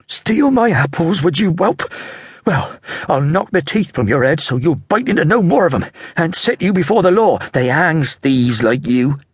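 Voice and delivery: high, scolding market woman; shrill apple seller. Acted. Apple seller berating the boy, high and scolding.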